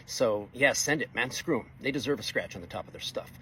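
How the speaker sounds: mildly sarcastic, laid on thick. Retold or imitated. Welder playing along with a coworker's scratch question, sarcastic. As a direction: play along with mock nonchalance. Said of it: "I'm picking up the sarcasm".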